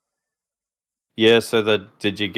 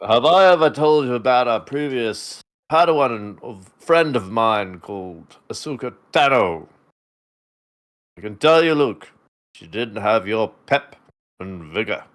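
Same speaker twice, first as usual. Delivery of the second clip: parody Obi-Wan. Acted. Obi-Wan speaking to Luke.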